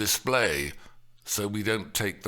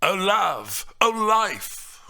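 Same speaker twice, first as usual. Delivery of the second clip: Paris lamenting; 8 semitones higher, 6 dB louder, slower than usual. Acted. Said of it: "are continued by Paris".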